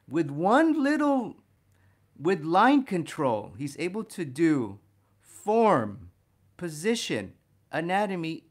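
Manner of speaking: enthusiastic. Real, not acted. Teacher marveling at Rubens' line control, loud and excited. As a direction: let the excitement build on each word.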